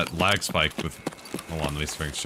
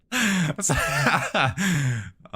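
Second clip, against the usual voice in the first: long high-pitched laugh; 11 semitones higher, 4 dB louder than usual. Real, not acted. Streamer amused by his own accent joke, high laughter. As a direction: burst out laughing, pitched well up.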